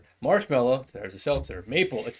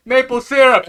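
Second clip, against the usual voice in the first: high, loud eager shout; excited blurt; 12 semitones higher, 14 dB louder than usual. Acted. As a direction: shout it out like a eureka. Seltzer team blurting idea.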